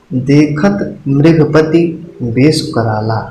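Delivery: very slow, drawn-out verse reading; slow recitation. Shown as a demonstration. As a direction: stretch देखत मृगपति out like a recited line. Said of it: "अब मैं आपको example देता हूँ". (बहुत धीमे, खींचकर पाठ)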